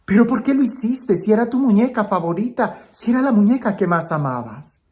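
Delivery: lightly acted fatherly shock; mildly shocked father. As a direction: ask in mild disbelief, settling by the end. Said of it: "espantado, le dice".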